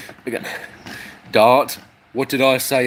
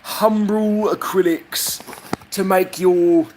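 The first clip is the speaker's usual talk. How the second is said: mock advert; 4 semitones higher than usual.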